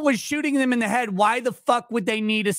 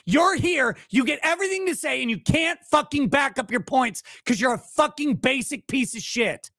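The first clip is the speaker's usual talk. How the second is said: real angry tirade, pitched up; worked up; 2 semitones higher than usual. Real, not acted. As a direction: rattle off accusations, riled and relentless. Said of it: "Why do you get so worked up".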